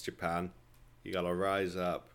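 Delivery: usual speaking voice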